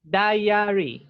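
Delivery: "diary" said carefully as dai-a-ri; I-A vowel demo. Shown as a demonstration. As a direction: let both I and A sound in "diary". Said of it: "es como que la I y la A".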